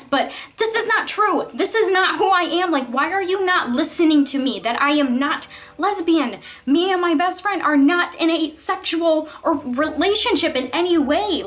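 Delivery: a touch of mock outrage; the student fed up with a counselor who won't listen, in mild exasperation; exasperated protest. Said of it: "I was just thinking".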